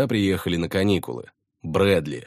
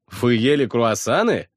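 mock surprise; 5 semitones higher, 5 dB louder than usual. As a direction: exclaim in feigned surprise. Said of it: "воскликнул я с притворным удивлением".

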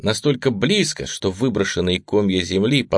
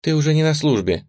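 objecting; 7 semitones higher than usual. A narrator's reading. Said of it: "возразил Рил".

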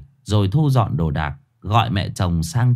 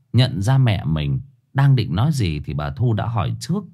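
usual speaking voice

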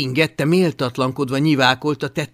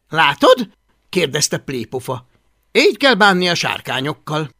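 louder, self-satisfied query; smug lesson; 2 semitones higher, 7 dB louder than usual. Acted. Man shows boy dragon handling, smugly. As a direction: show him how it's done, loudly.

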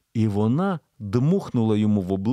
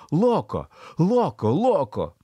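frantic repeat; 5 semitones higher, slower than usual. A narrator's reading. Emily repeats Spanish word frantically.

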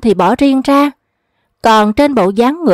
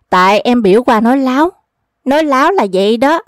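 quick, chuckling tease; teasing laugh; faster than usual. Acted. Old trickster teasing the woman he fooled, laughing.

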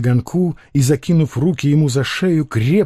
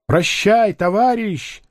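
higher called-out goodbye; called out farewell; 8 semitones higher, slower than usual. A narrator's reading. Comrades call goodbye to the departing man, higher. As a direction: call it after him as he goes. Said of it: "крикнули ему".

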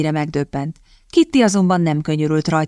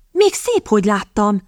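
snapping; 3 semitones higher than usual. Acted. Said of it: "csattant fel Kitty".

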